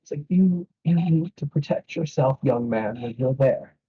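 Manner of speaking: high, lightly voiced old priest; warning priest. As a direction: caution the young man to protect himself. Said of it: "priest warns".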